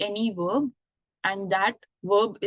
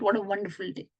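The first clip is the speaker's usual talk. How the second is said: happy exclamation; faster than usual. Shown as a demonstration. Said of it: "very happy and boisterous tone".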